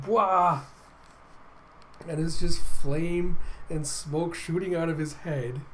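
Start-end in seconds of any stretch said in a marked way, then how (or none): 0.0-0.6 higher mock fire-breathing noise; hot-sauce outburst. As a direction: blurt it like burning hot sauce. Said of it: "you see him going".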